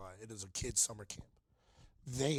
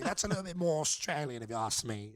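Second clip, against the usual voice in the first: imitated British accent; 3 semitones higher, 6 dB louder than usual. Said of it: "making an accent".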